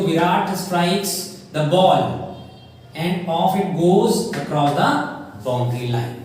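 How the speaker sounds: slow, drawn-out mock commentator call; a light touch of sports commentary; cricket commentary. Shown as a demonstration. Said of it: "commentator होते हैं वो क्या बोलते हैं".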